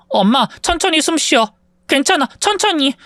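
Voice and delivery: put-on calm your mother down gently, like a child; a hint of a little girl reassuring mom; young daughter soothing. Daughter calms gasping mother.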